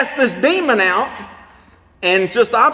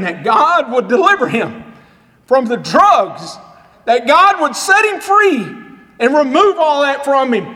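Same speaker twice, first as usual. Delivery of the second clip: fervent prayer; 3 semitones higher than usual. Retold or imitated. Preacher retells praying over prisoner.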